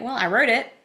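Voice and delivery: high-pitched wry amusement at yourself; lilting high, tickled by your own predicament; amused, laughing. Real, not acted. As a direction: squeal it through rising amusement at the irony. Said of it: "I'm laughing because it's like".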